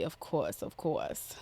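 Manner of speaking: whispered aside. Real, not acted.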